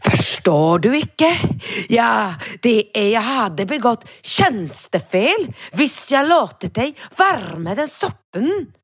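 officious clerk. Retold or imitated. Clerk explaining it would be misconduct, mock officious. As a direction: drag it out like a stiff rule-keeper. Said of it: "ett småhysteriskt".

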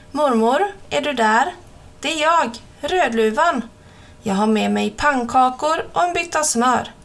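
a hint of a small girl at the door; girl knocking at grandma's door; little girl voice. Red Riding Hood calls grandma.

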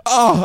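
high, loud yelp of cold shock; mock yelp. Mimicking a cold shower on the scalp, mock yelp. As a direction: cry out as if hit by icy water.

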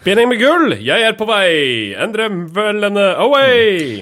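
high, loud, eager rush; mock superhero cry; excited hero voice. Photographer voiced, rushing off.

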